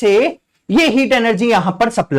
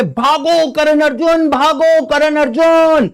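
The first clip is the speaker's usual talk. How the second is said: slow, higher hammed-up call to flee; a hint of a mother crying out to her sons; lightly voiced filmy mother shouting; mock mother's cry; 5 semitones higher, slower than usual. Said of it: "माताजी पीछे से चिल्ला रही है".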